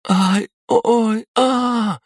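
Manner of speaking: sharp high cries of pain; loud moaning. A narrator's reading. Masha cries out clutching her belly, high pained moan. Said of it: "застонала Маша ещё громче".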